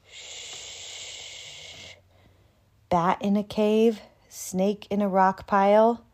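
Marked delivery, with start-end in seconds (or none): 0.1-1.9 soft shushing; hush. Acted. Narrator shushing as the animals sleep.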